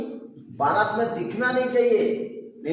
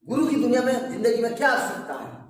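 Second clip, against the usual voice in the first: mildly annoyed, insistent questioning; mock impatient demand for an answer; retold anger; 3 semitones higher, faster than usual. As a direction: act out an irritated questioner, lightly. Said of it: "गुस्सा होके".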